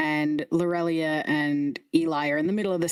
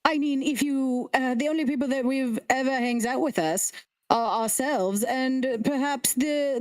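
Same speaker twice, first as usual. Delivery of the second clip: snooty head voice; 2 semitones higher than usual. Acted. Head insulting another.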